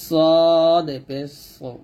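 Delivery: slow spelling demo ending in a thick সো; thick consonant. Shown as a demonstration. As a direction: hold সদ long with a full, heavy s. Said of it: "মোটা করে". (মোটা করে টেনে সদ পেশ সো)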